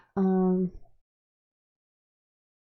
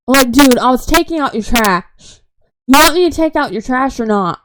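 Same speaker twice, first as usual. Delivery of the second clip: louder, fed-up venting; exasperated rant; 2 semitones higher, 4 dB louder than usual. Real, not acted. Venting at grandma about being questioned like a kid, loud and exasperated. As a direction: let the frustration spill out at her.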